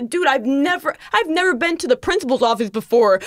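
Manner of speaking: mildly panicked protest, retold; lightly acted freak-out. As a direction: plead innocence with a touch of panic. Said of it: "I'm, like, freaking out".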